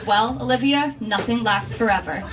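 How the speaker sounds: deadpan Boston mom; thick Boston accent. Retold or imitated. Mom answering daughter Olivia, deadpan Boston accent. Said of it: "in her thick Boston accent".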